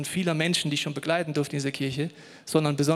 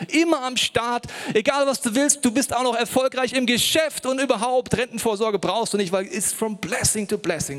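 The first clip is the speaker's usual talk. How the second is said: high, hammed-up gushing voice; mock the blessing-to-blessing crowd; preacher mocking people who promise an easy life; mocking prosperity preacher; 6 semitones higher than usual. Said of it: "Leute, die erzählen mir".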